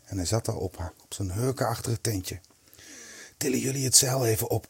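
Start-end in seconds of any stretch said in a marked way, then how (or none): 3.4-4.7 understated, quick command. A narrator's reading. Kees ordering his friends to lift the canvas, commanding. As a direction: give a brisk order without raising the voice. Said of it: "commandeerde hij".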